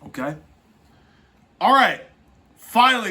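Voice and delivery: normal talking voice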